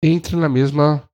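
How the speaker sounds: slow, spaced-out phrases. Shown as a demonstration. Trainer showing salespeople how to match a slow speaker, measured. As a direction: take your time on each phrase. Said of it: "se o cara fala mais devagar".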